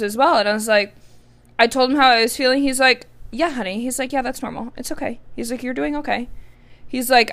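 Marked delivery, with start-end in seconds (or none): 3.3-5.2 softly voiced boyfriend, calming her down; a hint of a tender partner easing worry; soft reassurance. Boyfriend comforting her girlfriend, soft and reassuring. 5.6-6.3 softly voiced boyfriend, calming her down; a hint of a tender partner easing worry; soft reassurance. Boyfriend comforting her girlfriend, soft and reassuring.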